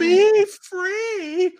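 high, airy, slowed mock-noble be free; mock heroic. Mocking the heroine freeing the little girl, high hammed-up noble voice. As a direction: ham up the noble heroine line. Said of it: "tells her to run away and be free".

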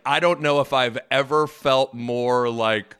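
slow, lightly voiced coach; a hint of the coach, drawn out slowly; Dana Altman impression. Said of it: "I did my Dana Altman".

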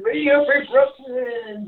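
slow, mouth just rinsed; said slowly after rinsing. Real, not acted. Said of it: "let me rinse one more time".

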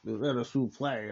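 suplex said soo-PLAY in the announcer's French style; mock-French suplex; quoting French suplex. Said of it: "with a French accent".

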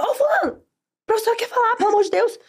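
very high mock pupil's plea; pupils hushing classmate.

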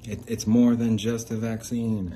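loud, slow, emphatic yell; all-caps shout. Pretend. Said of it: "typing in all caps".

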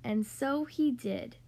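lively, sing-song storybook reading; reading to children. Acted. Podcast host reading The Ugly Duckling to young kids, animated storytelling. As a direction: read it like a bedtime picture book for little kids. Reads picture book to kids.

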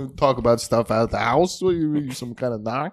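gruff Jersey dad. Acted. Tough Jersey dad rant.

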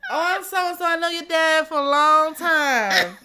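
high, loud, gushing busybody voice; chatty townie lady. Retold or imitated. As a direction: play the nosy family friend, high and chirpy. Imitating chatty townie acquaintance.

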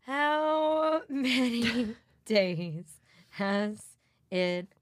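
slow, broken by laughter; slow laughing read. Acted. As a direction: read it out slowly through giggles. Slowly reads the counter, laughing.

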